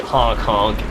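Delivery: goofy honk honk; silly clown honk. Pretend. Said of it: "Okay, stop that. Seriously, that's really annoying".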